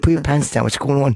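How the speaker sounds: put-on male Baltimore accent. Show how a man's accent would kick in now and then, imitating a Baltimore accent. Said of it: "that Baltimore accent would really kick in".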